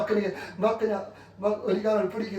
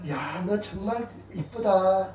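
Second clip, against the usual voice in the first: put-on slow, drawn-out compliment to a child; slow praise; much slower than usual. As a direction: stretch each word of the praise slowly. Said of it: "애들이니까".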